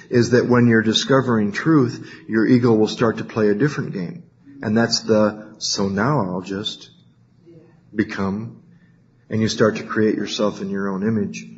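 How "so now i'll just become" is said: slow, soft mock inner voice; quiet ego voice. Ego talking to itself, slow and soft. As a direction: slowly murmur the ego's plan to itself. Ego's inner voice, acted quote.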